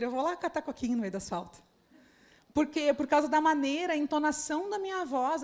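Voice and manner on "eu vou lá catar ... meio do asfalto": a mild, softer cheerful "tá bom" reply; cheerful agreement. Retold or imitated. The liderado accepting the task happily, softly cheerful. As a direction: answer happily, no offense taken. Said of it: "de uma maneira que ela diga".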